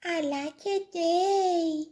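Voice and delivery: high-pitched woeful lament; tearful cry. A narrator's reading. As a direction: wail it like a forlorn youngster. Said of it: "And he cried".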